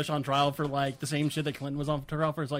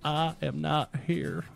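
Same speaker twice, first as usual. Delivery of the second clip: Clinton impression; 2 semitones lower, 4 dB quieter, slower than usual. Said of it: "he'd be like".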